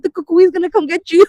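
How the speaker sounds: mock spooky voice to scare a little sister; lightly hammed-up scary tease; spooky threat. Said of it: "I used to be like".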